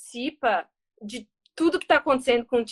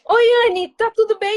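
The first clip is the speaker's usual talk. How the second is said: father answering; 7 semitones higher, 6 dB louder than usual. Retold or imitated. Voices father answering video call.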